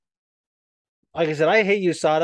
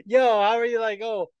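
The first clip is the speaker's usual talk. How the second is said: mock incredulous; 8 semitones higher than usual. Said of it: "I was like".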